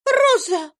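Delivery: high, loud sharp call of a name; a little girl crying out to silence the maid; exclaiming. A narrator's reading. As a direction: cry out her name to stop her. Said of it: "вскричала Ева".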